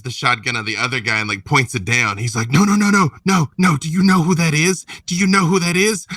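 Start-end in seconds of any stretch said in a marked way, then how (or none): 2.5-6.1 backpedaling in alarm; panicked protest. Acted. Thug realizing who she is.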